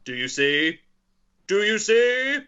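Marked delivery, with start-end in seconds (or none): 1.5-2.4 higher, louder, insistent question; increasing intensity. Acted. Quizmaster acting out a film line, intense. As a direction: ask it again with mounting urgency, pitch climbing. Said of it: "Man asking with increasing intensity".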